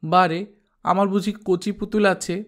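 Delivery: put-on high, sharp child's protest; sharp retort. Daughter protesting to mother in a high sharp voice. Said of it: "মেয়েটা তীক্ষ্ণ গলায় বলত".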